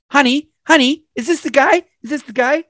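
high, worked-up husband voice; imitated irate husband. Angry guest asks wife to identify culprit, imitated indignation.

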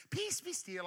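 lofty, sing-song poem reading; mock the King James poetry; poetic. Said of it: "like a poem".

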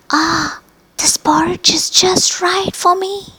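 put-on girl finds the perfect porridge, high and happy; happily. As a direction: squeal with content at the right bowl. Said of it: "she said happily".

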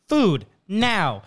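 lightly acted dog demand, word by word; demanding button dog. Dog demanding food via buttons.

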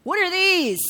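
high, loud, shocked question; son's shocked question. Retold or imitated. Son finding cigarettes in the glove box, shocked and high. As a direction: sound like a shocked kid. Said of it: "he goes".

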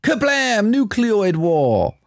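high, slow dramatic announcement; film line in a voice. Acted. Host reads the film line as a slow dramatic trailer. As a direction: boom it out like a movie trailer. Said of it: "What's that film?".

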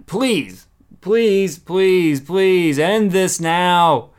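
rising loud begging please; pleading. Real, not acted. Wrestling fan begging the company to end the storyline, loud pleading. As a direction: beg them to end it, voice climbing.

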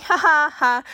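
mock laugh starting high, then falling; fake laugh. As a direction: imitate an awkward, forced ha-ha. Repeats forced laugh at his touching.

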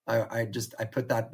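ordinary delivery

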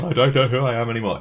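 high-pitched imitation of a soap character; Jenny. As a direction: mimic a distraught soap line, lightly. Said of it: "in the style of Jenny".

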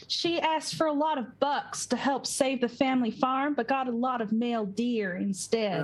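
lightly voiced Southern accent; a hint of Southern-girl accent. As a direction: play a good Southern girl, lightly drawn. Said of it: "she's a good Southern girl".

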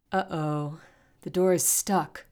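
loud, worried call; shouting. A narrator's reading. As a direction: raise the alarm to the group. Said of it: "Brock shouted".

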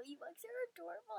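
whispering. Real, not acted. Gushing over Ewoks, whispered.

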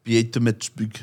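lightly mimicked South African accent; put-on South African accent. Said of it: "Why are you putting the ... the accent on?".

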